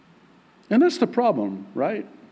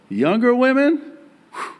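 mock nervous; 11 semitones higher, 5 dB louder than usual. Nervous joke about younger women.

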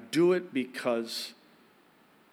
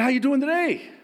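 higher, louder chirpy hello; bright greeting; 12 semitones higher, 7 dB louder than usual. Retold or imitated. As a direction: greet him loud and sunny. Retold greeting to cashier.

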